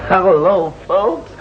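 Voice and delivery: a Jamaican's overdone fake accent greeting the congregation; put-on greeting accent. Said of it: "Oh, me accent so massive".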